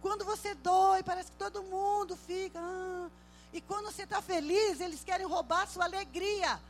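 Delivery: loud, high, impassioned sermon delivery; full-force preaching. Acted. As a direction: proclaim it to the congregation, building to a cry.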